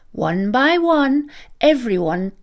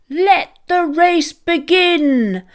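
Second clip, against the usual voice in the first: higher, louder, slow proclamation; declaring; 7 semitones higher, 4 dB louder than usual. Acted. Ram starting the sheep race, loud slow proclamation. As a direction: announce it like starting a grand race. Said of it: "he declared".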